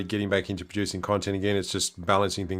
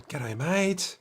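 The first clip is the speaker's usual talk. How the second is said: "G'day, mate" lifted much higher, sung out on the phone; phone greeting; 8 semitones higher than usual. Retold or imitated. Answering the phone to a mate, high sing-song greeting. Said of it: "sometimes picking up the phone".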